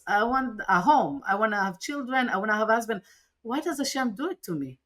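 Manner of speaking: mild echo of a tearful outburst; retold hysterical plea. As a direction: replay the breakdown on the phone, voice rising. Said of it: "And I was hysterical. I was crying".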